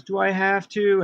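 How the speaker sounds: mock whine, pitched well up; childish protest. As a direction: imitate a reluctant child objecting. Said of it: "I did one of those".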